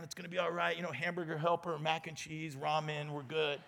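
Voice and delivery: soft, hushed reassurance; calming her down. Retold or imitated. Husband on the phone soothing his crying wife, soft and calm. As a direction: gently talk a panicked wife down. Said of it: "I'm calming her down".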